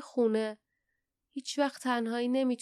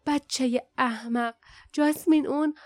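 grumbled scolding, rising in urgency; grumbling; 4 semitones higher, 5 dB louder than usual. A narrator's reading. Barda to Jasmine over the wounded Kin, grumbling urgently. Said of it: "باردا غرغر کرد".

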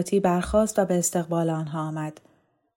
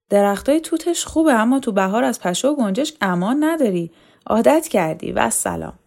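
put-on higher, louder teasing young man; Yavar teasing; 5 semitones higher, 5 dB louder than usual. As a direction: tease the old man a little. Yavar teases the old tailor. (یاور با لحن شوخی، زیرتر و بلندتر)

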